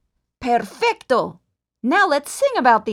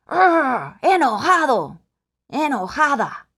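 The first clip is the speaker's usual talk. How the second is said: mock angry; 4 dB louder than usual. Shown as a demonstration. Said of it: "We've saved angry for last".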